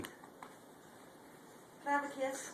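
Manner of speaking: slow, soft whisper. Real, not acted. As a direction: breathe the question very slowly. Mother asking toddler for kiss.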